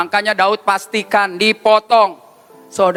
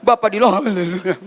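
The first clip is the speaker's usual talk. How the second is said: imitasi doa sambil terisak; pura-pura menangis. Retold or imitated. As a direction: tirukan orang menangis saat berdoa. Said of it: "udah nangis". (doa dengan tangis dibuat-buat)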